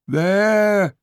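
high, breathless gasp; out of breath after the fall. Acted. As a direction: blurt it out winded. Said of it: "gasped Puzzle".

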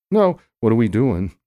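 indignant. Acted. Bickering on air.

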